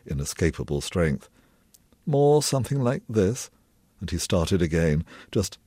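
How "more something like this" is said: dopey mockery. A narrator's reading. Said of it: "His tone dopey and mocking".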